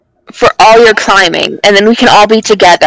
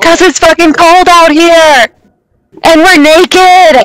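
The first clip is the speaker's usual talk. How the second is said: high-pitched mock holler; yelling down; 5 semitones higher than usual. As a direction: keep calling down from the mountaintop. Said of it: "I yell down to Florence".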